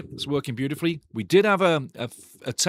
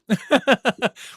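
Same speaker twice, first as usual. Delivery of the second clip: a loud, high laugh at his own joke; high burst of laughter; 10 semitones higher, 5 dB louder than usual. Real, not acted. Laughs trying on a big nose.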